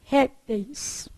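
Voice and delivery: "Répteis" with the stress on RÉP; stress on first syllable. Shown as a demonstration. Teacher giving the other plural to the class, first-syllable stress. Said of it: "que pode ser o quê?".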